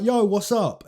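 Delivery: lightly imitated American accent. Fan retells fighter's greeting on Xbox, light American accent. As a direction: put on a touch of an American accent. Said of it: "in his American accent".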